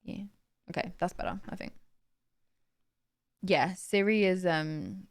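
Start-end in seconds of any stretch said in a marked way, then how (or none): 0.0-1.7 softer voice for a mic test; talking quietly. Real, not acted. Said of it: "if I talk quietly now".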